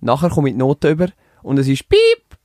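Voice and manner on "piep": spoken censor beep over the grade; quack censor. Retold or imitated. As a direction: say Piep like a bleep tone. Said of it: "Es ist zensiert worden".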